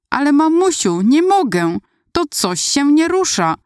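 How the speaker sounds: terrified shout. A narrator's reading. Little girl stuck in the air cries to her mum, terrified. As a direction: scream it in real terror. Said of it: "krzyczałam dalej z wielkim przerażeniem".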